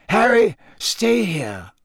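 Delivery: slow, firm order; firm command. Acted. Dumbledore firmly ordering Harry to stay put, slow. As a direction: plant him in place.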